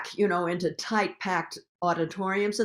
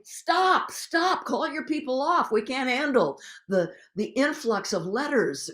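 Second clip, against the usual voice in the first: pleading congressmen; 5 semitones higher than usual. Retold or imitated. Activist retelling Congress begging to stop the letters, imitating an urgent plea. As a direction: act out a harried congressman begging them off. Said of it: "The Congress people were saying".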